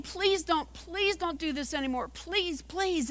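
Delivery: soft, high-pitched begging; pleading. Acted. Teacup begging not to be fired, pleading. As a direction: plead softly, each please weaker and smaller. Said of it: "he's pleading".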